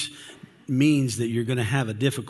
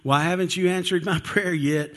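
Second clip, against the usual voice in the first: mock anxious prayer; 6 semitones higher than usual. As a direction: whine at God like you're fed up waiting. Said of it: "I'm like".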